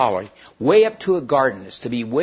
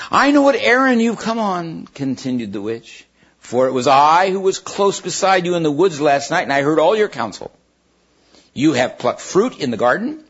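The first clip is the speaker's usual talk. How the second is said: witch voice; 4 semitones higher than usual. Acted. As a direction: speak with a witch's menace. Witch speaks, higher and louder.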